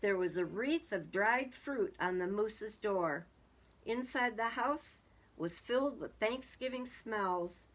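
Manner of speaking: measured picture-book reading; storybook narrator; story narration. A narrator's reading. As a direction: read it out as a story for children. Reads a story aloud.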